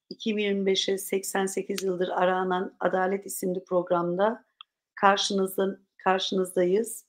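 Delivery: slightly hoarse, tired throat. Real, not acted. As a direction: talk through a hoarse throat. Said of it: "biraz sesim kısık".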